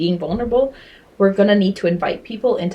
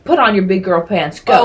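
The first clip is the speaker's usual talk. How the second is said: lightly voiced brisk parent; hint of a parent's order; dismissive parent; 5 dB louder than usual. Parent telling a crying child off, lightly imitated. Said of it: "whether a parent was like".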